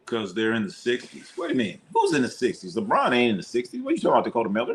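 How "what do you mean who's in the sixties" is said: incredulous. Real, not acted. Incredulous reaction to Jordan claim.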